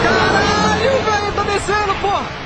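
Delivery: excited exclamation. Real, not acted. Object descending, filmer amazed.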